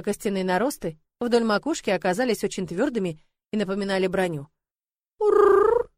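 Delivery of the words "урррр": high, loud rolling purr; dragon purr. A narrator's reading. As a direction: purr like a content little dragon. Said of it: "перешла на другую тональность". (довольное урчание дракончика)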